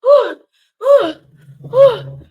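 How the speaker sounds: high, loud wheezing whew laughs; high loud whews between laughs; breathless whews. Real, not acted. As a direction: gasp out whew after laughing. Reacting to chaotic church clip.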